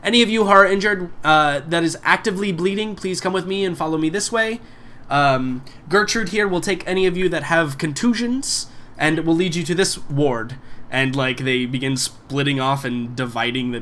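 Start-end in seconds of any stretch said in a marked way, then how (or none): 0.0-10.5 raised, high-pitched announcement to a group; calling out. Acted. Attendant directing the injured to wards, calling out efficiently. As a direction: call out briskly, in work mode. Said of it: "calls out and she's like".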